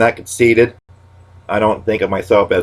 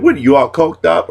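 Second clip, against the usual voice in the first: much higher, louder teasing jab; pitched-up comic retort; high mock accusation; 8 semitones higher, 4 dB louder than usual. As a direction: needle them in a squeaky voice. Catchphrase fired at a friend.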